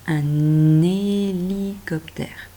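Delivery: un hélicoptère linked as "un-n-hélicoptère", slow and drawn out; slow teacher demo of the liaison. Shown as a demonstration. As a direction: stretch the liaison so the n joins onto hélicoptère. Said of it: "Et on fait la liaison".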